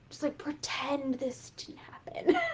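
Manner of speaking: hushed whisper of a secret; mock-conspiratorial whisper; sneaky whisper. Conspiratorial aside.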